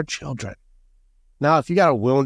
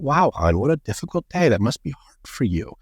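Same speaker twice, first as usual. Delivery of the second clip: mock sympathetic husband. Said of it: "supposed to just be like, kind eyes and open heart".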